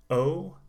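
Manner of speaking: O as a rising, rounded oh; long O sound. Shown as a demonstration. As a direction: model a clear long oh for O. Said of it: "the key sound".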